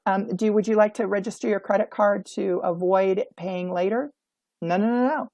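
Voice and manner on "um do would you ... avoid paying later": timid greeter. Shown as a demonstration. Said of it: "They don't say something like".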